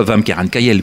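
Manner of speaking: quick sample of Northern French patois; casual Northern patois phrase. Shown as a demonstration. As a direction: say it as local Picard patois. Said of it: "le vrai patois".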